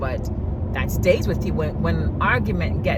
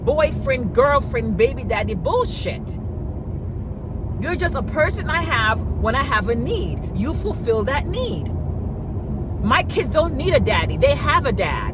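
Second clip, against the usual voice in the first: high, sassy lecturing voice; mock lecture to a clingy man; sassy telling-off; 7 semitones higher than usual. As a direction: lay down the law with attitude. Telling him off in retelling.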